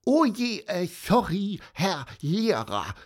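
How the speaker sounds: high squeaky cheeky apology; grinning squeaker. A narrator's reading. Pieper saying sorry to the teacher, grinning squeak. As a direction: apologise in a small high voice with a grin. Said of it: "grinste Pieper".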